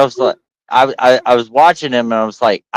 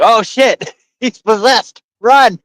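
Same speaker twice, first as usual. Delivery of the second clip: mock panic; 12 semitones higher, slower than usual. Police panicking at a possessed man.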